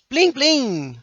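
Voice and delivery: high chiming plim plim; sound effect plim. Shown as a demonstration. Teacher demonstrating an onomatopoeia for the class, chiming high. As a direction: ring out "Plim, plim!" like a little bell, high and bright. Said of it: "Plim é onomatopeia".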